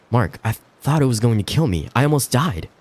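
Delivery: a hint of near tears; shaken fear. Shaken wife after terror.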